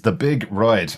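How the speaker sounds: Big Ride with an Irish "Roide"; Dublin accent. Shown as a demonstration. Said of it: "I can say that in my Dublin accent".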